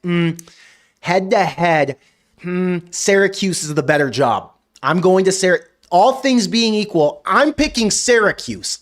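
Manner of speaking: mock the coach weighing Syracuse, slow and sing-song; mocking the coordinator.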